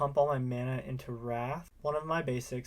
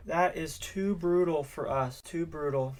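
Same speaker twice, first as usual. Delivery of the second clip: slow, loud, drawn-out groan of a line; too brutal, dragged out in mock pain; mock anguish; 4 semitones higher, 4 dB louder, slower than usual. Real, not acted. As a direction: ham up the despair. Reacting to a bad turn.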